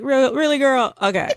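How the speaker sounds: high-pitched mock "really, girl?"; sassy disbelief. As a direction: play it as an incredulous, sassy friend. Mock reaction to Caroline.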